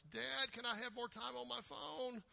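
a hint of a child begging Dad; eleven-year-old whiny voice. Kid begging dad for phone time, lightly whiny. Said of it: "eleven-year-old whiny voice".

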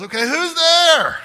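high, loud, drawn-out call through the door; girl at the gate. Retold or imitated. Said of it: "she goes".

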